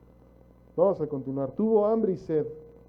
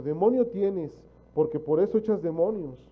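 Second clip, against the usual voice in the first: accusing quote; 2 semitones higher, 4 dB louder than usual. Retold or imitated.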